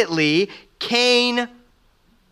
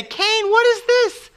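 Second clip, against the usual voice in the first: high, slow mock-rebuke from God; stern God questioning; 14 semitones higher than usual. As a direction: drag it out like a disappointed God. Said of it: "God didn't say".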